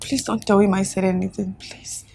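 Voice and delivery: low, hurried, pleading; scared wife begging secrecy; fearful plea. Acted. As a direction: beg him not to tell.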